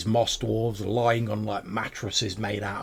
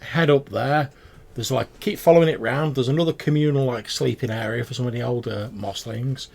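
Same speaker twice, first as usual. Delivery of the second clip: goblin giving directions; 2 semitones higher, 5 dB louder than usual. Acted. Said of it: "He's like".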